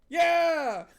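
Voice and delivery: high, loud cackly chorus; witches' chorus. Acted. Witches answering Huel in a high loud chorus. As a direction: shout back like eager hags.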